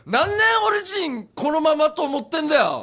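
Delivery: drawn-out, high-pitched yell; slow, full-force comic outburst; big shout. Acted. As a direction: bellow a hammed-up protest. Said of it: "どこで大声出してる？".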